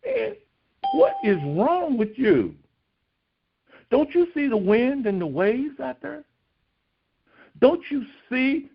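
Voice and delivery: high, frantic disciples crying out over the storm; panicked pleading. Retold or imitated. Disciples shouting back at Jesus in the storm, high panicked plea. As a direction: cry out in alarm, voice pushed up high. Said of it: "They look back at him and go".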